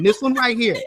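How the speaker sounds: real catch of tears in the voice; choked up and teary, real; close to crying. Real, not acted. Holds up the healing crystal, choked up with real tears. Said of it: "I feel like I'm about to cry".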